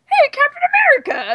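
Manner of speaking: high-pitched imitation Boston accent. Fan greeting a photobombing star in a mock Boston accent. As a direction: call out like an excited Boston guy. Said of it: "sounded like he was from Boston".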